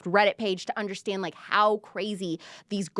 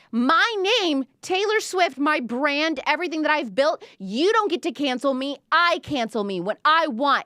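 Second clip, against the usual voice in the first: defiant tirade; 5 semitones higher than usual. Retold or imitated. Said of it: "a mother pulling the car over to yell".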